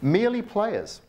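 amateur dramatic recitation of Shakespeare; bad acting. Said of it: "And forgive the acting, it's not too flash".

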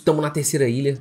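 normal talking voice

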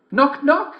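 high, poorly faked girl voice; wolf badly faking a little girl; wolf at the door faking the girl's voice; bad imitation of a girl. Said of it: "not very good imitation of Little Red Riding Hood's voice".

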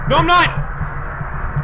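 very slow, stretched-out whine; drawn-out plea. Real, not acted. Gamer whining slowly as the monster closes in. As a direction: stretch every word in dread.

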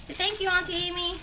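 put-on fast, brisk prompt to a toddler; quick prompt. Shown as a demonstration. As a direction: rattle it off to the child.

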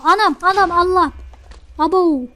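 high, loud panicked yelps; real jump scare from an explosion; startled fright. Real, not acted. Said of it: "Abi ödüm koptu".

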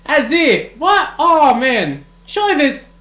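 real stunned reaction; disbelieving. Real, not acted. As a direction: blurt it out in disbelief. Disbelief at a game event.

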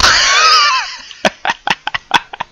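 loud, very high burst of laughter; big laugh. Real, not acted. After a near miss.

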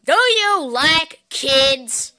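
commercial host. Acted. Mock commercial pitch.

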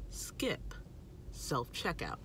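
whisper. Acted. Vlogger whispers her last shopping tip to viewers as a secret. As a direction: drop to a hushed secret for the big tip. Builds suspense before the final tip.

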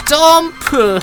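loud high shout of 점프!; shouted skill call. Real, not acted. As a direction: yell the skill name out. Calling out skill in game. (스킬 이름을 크게 외치기)

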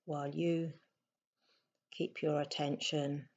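softly spoken meditation guidance with long pauses; unhurried, slightly hushed meditation voice; guided meditation. Acted. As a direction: guide them gently into stillness, leaving space between phrases.

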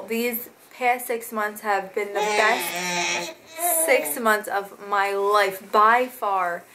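slow, voice catching with tears; tearful. Real, not acted. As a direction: get choked up while saying it slowly. Emotional thanks about her son.

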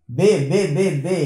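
बे साफ़, अलग-अलग, चार बार; हर बे होंठ बंद करके साफ़ बोलें; बे को दोहराना. Shown as a demonstration. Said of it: "मैं रिपीट कर रहा हूँ". (बे की आवाज़ का अभ्यास)

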